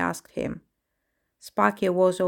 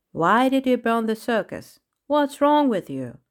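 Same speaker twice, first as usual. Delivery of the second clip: raised, pressing questions; demanding; 4 semitones higher, 4 dB louder than usual. Acted. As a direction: fire the questions at him. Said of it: "Krish tossed questions at the clown".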